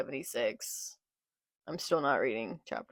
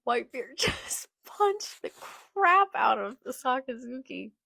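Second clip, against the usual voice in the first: high, delighted cry with a laugh breaking in; thrilled laughing; 7 semitones higher than usual. Real, not acted. Fan cheering Whitebeard's punch, thrilled. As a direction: crow it excitedly through a laugh.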